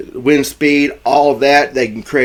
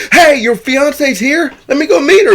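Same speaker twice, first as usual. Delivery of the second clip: very high, excited imitation of a woman; mock eagerness; 5 dB louder than usual. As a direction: pipe up loudly, eager to butt in. Jo eager to meet the fiancee.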